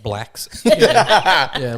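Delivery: talking without false teeth, laughing; gummy, toothless speech. Real, not acted. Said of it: "I haven't put my teeth in today".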